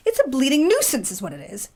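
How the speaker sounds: thick Yorkshire working woman; broad northern grumble; Yorkshire accent. Acted. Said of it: "in a thick Yorkshire accent".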